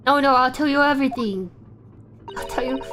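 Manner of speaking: mock panicked pleading. Threatened suspect promises the interrogator a confession, mildly panicked. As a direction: hurriedly cave in to the threat.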